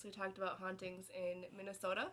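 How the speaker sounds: a natural slip into Minnesotan accent. Real, not acted. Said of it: "You sounded real Minnesotan right there".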